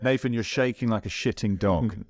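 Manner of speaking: mild mock yell from the bank; retold scream. Coach screaming at a rower from the bank, mock yell. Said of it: "Chris just screaming from the bank".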